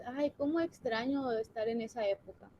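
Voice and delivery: wistful sigh, plainly ironic; ironic nostalgia. Shown as a demonstration. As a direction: feign longing for the bad old days. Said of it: "¿Verdad que es irónico?". (nostalgia irónica fingida)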